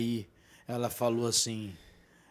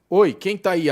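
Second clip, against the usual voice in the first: calling out; 7 semitones higher, 12 dB louder than usual. Retold or imitated. Calling into the dark room.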